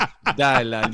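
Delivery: put-on Jamaican accent; playful mock-Jamaican banter. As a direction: cheer a friend on in a Jamaican accent. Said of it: "You get the Jamaican accent out there".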